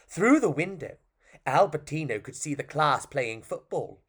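lively, well-paced story narration; storytelling to children. Acted. Storyteller to an audience about a puppet, lively narration. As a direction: tell it like a tale for children.

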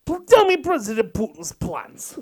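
mock Russian interrogator, insisting; a hammed-up Russian accent demanding answers. Interrogator pressing the soldier in a mock Russian accent. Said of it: "You do a really good Russian accent".

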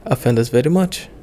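a hint of an Indian English lilt; light Indian accent. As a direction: lightly imitate the Indian tour guide's accent, playful. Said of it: "I'm gonna try to do his accent".

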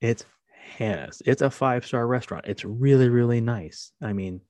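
cheering her up. Retold or imitated. Dad talking up the birthday dinner to his daughter, coaxing. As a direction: talk up the dinner to lift her mood. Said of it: "really trying to cheer her up".

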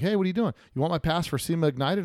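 mock upbeat offer. Retold own offer to listener.

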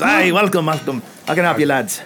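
put-on a shaky, half-hearted Scottish accent on a dwarf; a hammed-up Scottish brogue, gently done; bad Scottish accent. GM voicing a dwarf blacksmith greeting adventurers, bad Scottish accent. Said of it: "This is my really bad Scottish accent".

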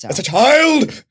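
high-pitched exclamation of disbelief; shocked outburst. Real, not acted. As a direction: burst out in real shock, pitch leaping up. Shocked objection to praising child actress.

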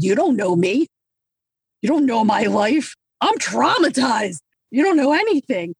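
indignant retort, climbing in pitch; mock defensive. Acting out past defensive excuse.

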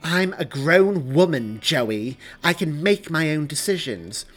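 loud, high, emphatic protest; worked-up, offended insistence; indignant. Acted. Indignant woman insisting in a quarrel.

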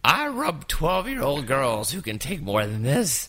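put-on slow old lady teasing; slow mild old lady jab; old woman voice. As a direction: roast him in a lightly voiced old woman. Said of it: "that's my old woman voice".

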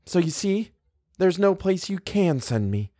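put-on high, childlike pleading. A narrator's reading. Guest explaining she has nowhere to go, pleading.

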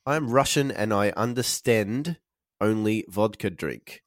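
put-on weak slow Russian accent; slow mock Russian accent. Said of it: "My Russian accent's not very great".

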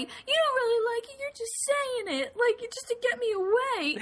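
high-pitched mock indignation; whiny, hammed-up accusation at parents; imitating being mad. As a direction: protest like a miffed kid. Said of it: "And then I get so mad".

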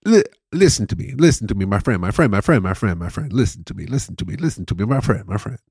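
loop the pitch like a Persian hawker who can't stop; relentless Persian-accented vendor patter; Persian street seller. Acted. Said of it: "friend as Persian".

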